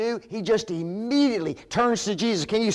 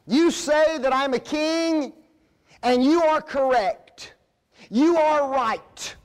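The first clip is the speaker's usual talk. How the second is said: raised, emphatic declaration; Jesus affirming; 7 semitones higher, 3 dB louder than usual. Acted. Preacher voicing Jesus answering Pilate, high and emphatic. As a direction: state it boldly, leaving no doubt. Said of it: "what Jesus meant is this".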